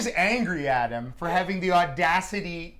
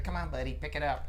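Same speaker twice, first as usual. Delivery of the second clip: manager's low mutter; 6 semitones lower, 11 dB quieter than usual. Retold or imitated. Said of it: "the manager said".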